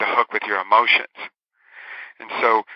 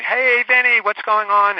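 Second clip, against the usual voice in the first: bright, high, louder hello as if to a friend; cheery office greeting; 8 semitones higher, 4 dB louder, slower than usual. Retold or imitated. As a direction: call out a happy hello across the office. Coworkers greeting him cheerfully.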